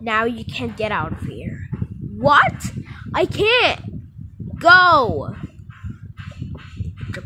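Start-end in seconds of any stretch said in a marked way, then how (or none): 2.2-5.3 high, loud yelling; shouted protest. Pretend. Arrested kid yells at the officer. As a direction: yell it out in panic.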